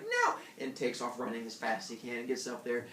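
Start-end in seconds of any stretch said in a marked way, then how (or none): 0.0-0.3 high, sharp no; shocked hare. Retold or imitated. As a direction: jolt into panic. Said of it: "they're like".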